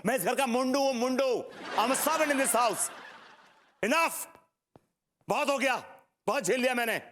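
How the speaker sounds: high-pitched, fed-up tirade; angry outburst. Acted. Husband telling wife he is no servant, angry. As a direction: let the resentment out, voice pitched high.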